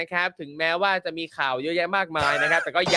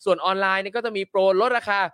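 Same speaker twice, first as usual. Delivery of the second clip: ad read; 3 semitones higher than usual. Acted. Reads sponsor ads.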